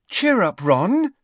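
high, loud cheering-on call. Acted. Lavender calls to a downcast Ron, calling out high and loud. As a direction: call it out high to buck up a friend. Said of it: "called Lavender".

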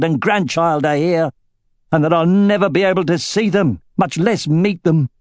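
a father's grief spilling into accusation; bitter old butcher, rising anguish. Acted. Sloane's outburst at Aragorn.

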